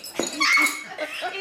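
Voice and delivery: quick cackling laugh; burst of laughter. Acted. Party girl introducing herself to a listener, laughing. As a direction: let out a delighted cackle. Topsy crows about herself.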